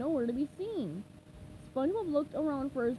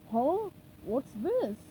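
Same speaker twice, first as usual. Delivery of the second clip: curious Plankton; much slower than usual. Acted. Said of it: "Plankton said".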